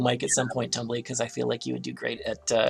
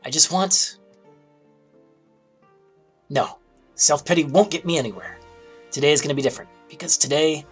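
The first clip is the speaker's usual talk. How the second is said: dragon voice; 3 semitones higher, 4 dB louder than usual. Acted. Plays dragon character in game.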